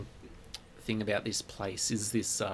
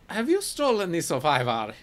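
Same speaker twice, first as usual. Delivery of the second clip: higher, prying merchant voice; suspicious shopkeeper; 7 semitones higher, 4 dB louder than usual. Acted. Shopkeeper questioning the party about the stolen pots, suspicious. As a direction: needle them about theft.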